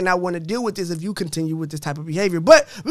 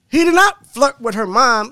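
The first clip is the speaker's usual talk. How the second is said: indignant; 4 semitones higher, 5 dB louder than usual. Real, not acted. Indignant rebuttal of comment.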